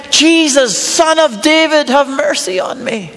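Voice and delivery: mild retold shout. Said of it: "he shouts out".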